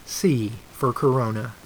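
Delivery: kindergarten teacher voice. Shown as a demonstration. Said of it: "my P B S voice".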